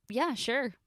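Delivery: forced casual. Acted. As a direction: play it cool. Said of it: "as casually as possible".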